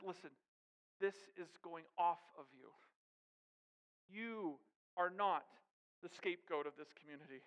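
gently free him from his burden; the healer speaking to the outcast. Acted. Voices Jesus freeing the man.

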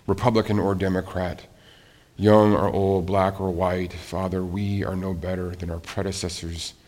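low-key pastoral prayer with pauses; congregational prayer. Real, not acted. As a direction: pray humbly, unhurried, in measured phrases.

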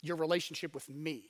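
lightly voiced tender Jesus; gentle Jesus. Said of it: "And Jesus is like".

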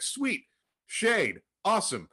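high, bright burst of delight; happy Jonah. Retold or imitated. Jonah thrilled about his shade, giddy delight. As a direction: cheer the shade like a gift. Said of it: "And Jonah's happy about this".

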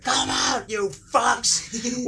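high, forceful calling out; furious mock shout. Driver slams the doors at hidden kids, angry mock shout. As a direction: challenge the hiders as an angry driver.

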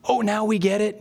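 lightly mimicked know-it-all disciples; eager claim. Disciples assuring Jesus they understand, mildly over-eager. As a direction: play it mildly smug and keen. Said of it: "he slingshots it right back at them".

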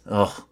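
ugh. Real, not acted. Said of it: "I can't even say it without mocking it".

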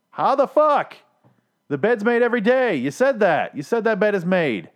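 high, loud incredulous shouting; exasperated outburst. Real, not acted. Reviewer rants at a show's plot hole, exasperated. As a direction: blow up in disbelief at the nonsense.

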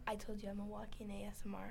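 quick teasing whisper; giggly prank whisper. Pretend. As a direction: whisper it fast and playful.

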